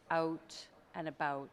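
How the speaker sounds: "out" and "about" with lips pushed forward; Canadian rounded vowels. Shown as a demonstration. Coach showing Canadian lips, rounded "out and about". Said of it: "what we're doing with our lips".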